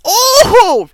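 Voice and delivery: high, loud cry of frustration; really loud. Real, not acted. Gamer reacting to a miss, really loud yell. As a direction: let out a pained yell at the miss. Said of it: "I'm sorry if I'm being really loud".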